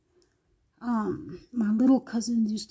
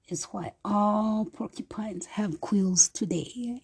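whispered ending; 5 dB quieter, slower than usual. Acted. Closing line of the legend.

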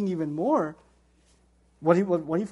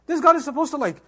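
baffled reader; 4 semitones higher, 4 dB louder than usual. Retold or imitated. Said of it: "he's reading this and he's like".

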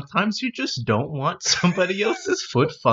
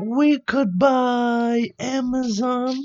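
higher dopey cartoon voice; higher goofy cartoon flunky voice; cartoon sidekick voice; 8 semitones higher, slower than usual. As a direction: play the dim board member raising a hand. Member suggests purchase.

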